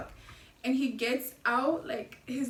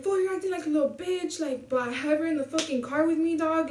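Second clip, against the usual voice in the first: higher-pitched retold telling-off; exasperated scolding; 4 semitones higher than usual. Dude scolding his brother with her in the car, retold as exasperated. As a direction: act out a fed-up rebuke.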